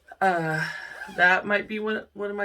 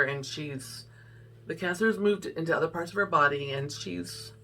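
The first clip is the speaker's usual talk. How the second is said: choking up; 2 semitones lower, 4 dB quieter than usual. Real, not acted. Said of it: "sorry, she's been battling".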